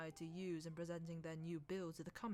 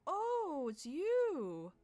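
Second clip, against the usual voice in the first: higher, louder hearty greeting; beaming friendly welcome; 8 semitones higher, 8 dB louder than usual. Acted. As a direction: hail him like an old friend. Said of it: "very friendly".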